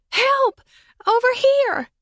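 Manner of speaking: high, loud cry for help; girl shouting. Acted. Girl in a tree calling to a boy, loud shout.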